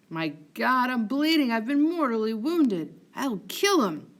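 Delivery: loud wounded outcry; pained shout. Acted. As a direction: cry out in pain and rage. Wounded Montano cries out.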